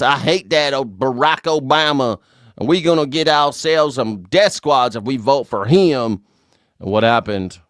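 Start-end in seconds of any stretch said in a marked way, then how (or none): 0.0-6.2 mock redneck voter. Streamer mocks Trump voters in a lightly put-on yokel voice. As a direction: play a dim conservative voter, half-hearted.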